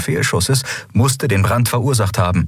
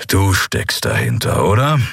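growling. Acted. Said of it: "knurrte Keru".

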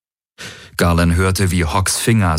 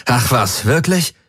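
grim sarcasm; 4 semitones higher than usual. Acted. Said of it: "gab Garland düster zurück".

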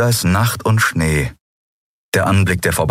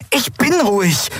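much higher, shouted denial; angry snap. Acted. Endriel snapping at Lien that she is calm, shouting. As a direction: insist you're calm while yelling.

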